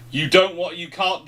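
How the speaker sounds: ordinary talk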